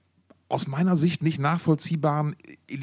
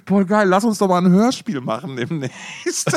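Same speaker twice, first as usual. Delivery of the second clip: mock eager; 6 semitones higher, 7 dB louder than usual. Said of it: "ich hatte gerade irgendwie so".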